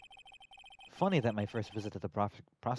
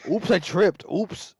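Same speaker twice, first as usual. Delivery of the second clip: fake innocent oops; 8 semitones higher, 11 dB louder, slower than usual. Fake accident after kill.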